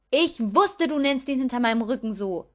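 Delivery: high, loud accusing cry. A narrator's reading. Petunia catches her sister's name-calling, accusing. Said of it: "rief Petunia anklagend".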